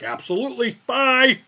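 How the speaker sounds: high-pitched, hammed-up quick compliance; meek agreement. Scolded patient ending the doctor's call, mock-meek agreement. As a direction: squeak out a mock surrender. Acted hasty surrender to the doctor.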